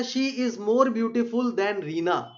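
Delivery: slow, deliberate reading of an example; slow dictation. Shown as a demonstration. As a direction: read it word by word for the class. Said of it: "teacher reads example sentence".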